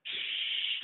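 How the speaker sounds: unvoiced hush; shushing. Real, not acted. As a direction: hush your friend quickly. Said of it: "don't say that".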